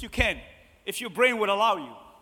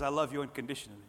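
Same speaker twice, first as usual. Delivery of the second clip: low, softened voice of God; gentle reassurance; 5 semitones lower, 5 dB quieter, faster than usual. Acted. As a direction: let it drop low and quiet. God's reassurance voiced after heavy imagining.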